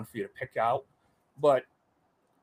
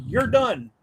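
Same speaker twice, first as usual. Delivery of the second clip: higher, curt instructor call; mock instructor verdict; 11 semitones higher, 6 dB louder than usual. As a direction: cut the recruit off. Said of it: "Points at me, says".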